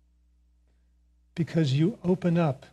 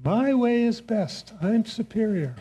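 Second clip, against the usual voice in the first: higher, drawn-out mock arrogance, savoring each claim; smug superiority; 5 semitones higher than usual. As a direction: ham up the know-it-all, a touch slow. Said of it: "You hear that?".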